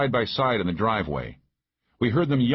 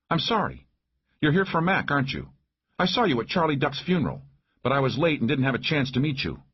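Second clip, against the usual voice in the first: high female character voice; apologetic woman sheriff; 7 semitones higher than usual. Acted. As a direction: speak higher, politely making amends. Narrator voices Maggie, suddenly apologetic.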